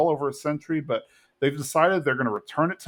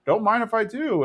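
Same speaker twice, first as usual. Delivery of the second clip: put-on higher, cocky old-man voice; Cotton impression; 9 semitones higher than usual. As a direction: take his beer smugly.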